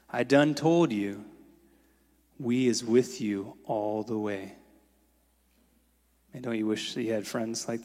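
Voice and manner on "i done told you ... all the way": put-on firm old woman. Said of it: "looked directly into my eyes and said".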